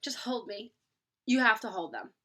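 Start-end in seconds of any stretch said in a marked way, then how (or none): 0.0-0.7 soft imitated plea for comfort; needy plea. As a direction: ask softly to be held. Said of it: "And they're just like".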